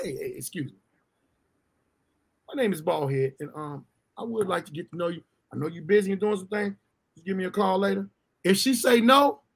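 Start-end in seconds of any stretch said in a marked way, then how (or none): 0.0-8.1 much softer, lower courteous pickup line; polite soft approach. Retold or imitated. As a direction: gently introduce yourself to a stranger. Himself approaching a woman politely.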